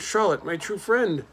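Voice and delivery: slow, high grieving moan. A narrator's reading. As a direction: draw it out in sorrow. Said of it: "he moaned".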